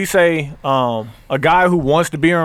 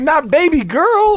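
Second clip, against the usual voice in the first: mock dismissive quote; 9 semitones higher, much slower than usual. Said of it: "That's why he was like".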